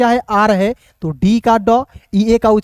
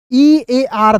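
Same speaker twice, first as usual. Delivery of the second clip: slow letter-by-letter spelling; 3 semitones higher, much slower than usual. Shown as a demonstration. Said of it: "इसका उच्चारण ईयर".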